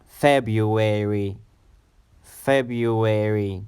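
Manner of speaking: February said slowly, syllable by syllable; drawn-out teacher's February; careful pronunciation. Shown as a demonstration. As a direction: model February slowly for learners. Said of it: "the next month of the year is February".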